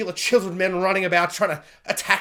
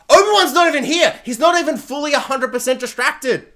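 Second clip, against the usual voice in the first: exasperated yell at screen; 6 semitones higher, 4 dB louder than usual. Retold or imitated. Viewer yelling at screen.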